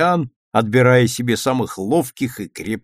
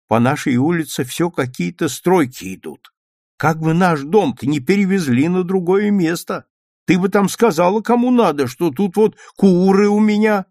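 put-on higher and louder fussing old woman; fretting grandmother; 7 semitones higher, 3 dB louder than usual. A narrator's reading. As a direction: worry at her daughter.

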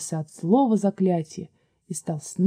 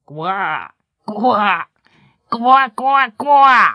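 croaking frogs; 4 dB louder, much slower than usual. A narrator's reading. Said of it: "издали кричат лягушки".

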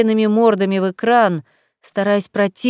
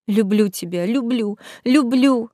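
sobbing. A narrator's reading. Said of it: "всхлипнула я".

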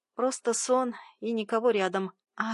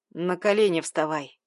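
bark; 3 semitones lower, 4 dB louder than usual. Acted. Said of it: "рявкнул он".

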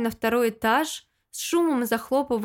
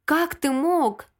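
higher, slow tearful cry; wailed; 4 semitones higher, slower than usual. Acted. To Lyosha after the slap, a slow tearful wail. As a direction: wail it at him. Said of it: "воплю не своим голосом".

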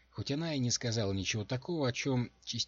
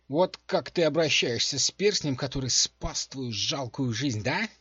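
high, loud reproach; indignant scolding; 6 semitones higher, 9 dB louder than usual. A narrator's reading. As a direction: tell off your careless owner. Offended ring scolds its owner.

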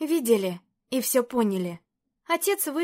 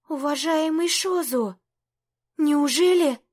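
surprised delight; 4 semitones higher than usual. Acted. Princess surprised.

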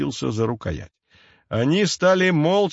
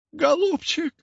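put-on high, strained old-witch wail; wailing hag; slower than usual. A narrator's reading. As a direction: howl the word like a desperate crone. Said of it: "завыла она теперь уже во весь голос". (воющая старуха-ведьма)

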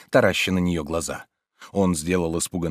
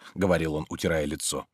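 ordinary delivery, nothing marked

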